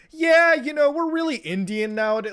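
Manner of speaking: put-on high, silly voice for a fourth generation kid; mock Canadian descendant. Mocking his own descendants claiming Indian roots, high and silly. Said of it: "when they're like".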